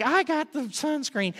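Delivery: mock child proudly drawing it out; lightly imitated eager kid; kids offering token help. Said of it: "and, like".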